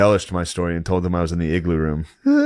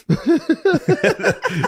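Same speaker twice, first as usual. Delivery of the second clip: mock laugh at crowd. Shown as a demonstration. Comic on stage laughing at a girl, cackling. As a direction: fake laugh aimed at a girl. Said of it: "I go".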